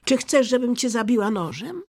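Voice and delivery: high, loud threatening question; fierce little robber girl; angry. A narrator's reading. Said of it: "mruknęła z gniewem".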